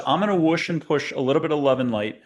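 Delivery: usual speaking voice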